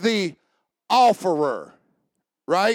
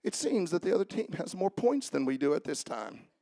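mock unemotional; 4 semitones lower, 11 dB quieter than usual. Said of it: "Let me see you say".

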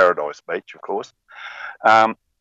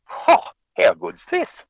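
high, slow thrilled exclamation; overjoyed fisherman; delighted; 14 semitones higher than usual. Acted. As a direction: marvel at the fish. Kiwi delighted at fish.

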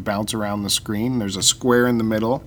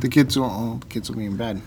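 sarcastic. Acted. Mock realization, repeating.

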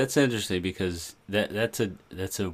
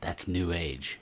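mom voice; slower than usual. Retold or imitated. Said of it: "my mom's line was".

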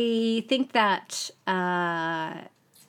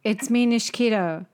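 terse, deadpan diary entry, a touch louder; 4 dB louder than usual. Acted. Host parodies a singer's minimal blog post, terse mimicry. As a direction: lightly mimic a man of few words, short phrases with pauses. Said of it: "a normal Nishikito, uh, J-Web goes like this".

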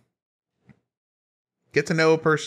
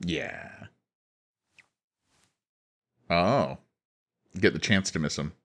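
whispering; 5 semitones lower, 6 dB quieter than usual. Real, not acted. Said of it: "why are we whispering?".

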